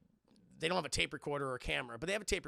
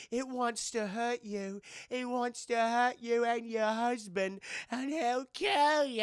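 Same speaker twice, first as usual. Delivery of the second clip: slow ominous warning; 5 semitones higher, 4 dB louder, much slower than usual. Retold or imitated. Retold ominous warning of Lorraine.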